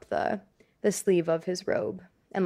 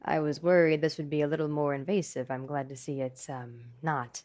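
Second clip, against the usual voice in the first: Bruce; 4 semitones lower than usual. Acted. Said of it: "Bruce takes a, a step towards the doctor".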